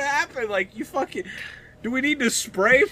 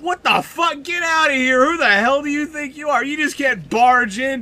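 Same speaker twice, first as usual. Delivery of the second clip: shouting; 4 dB louder than usual. Acted. Intruder confronted in studio.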